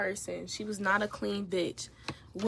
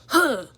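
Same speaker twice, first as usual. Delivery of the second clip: loud, higher huff; huffy "huh"; 4 semitones higher, 9 dB louder than usual. Retold or imitated. Roommate storming out of the room, huffing. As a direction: puff out one indignant "huh". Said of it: "stumbles out".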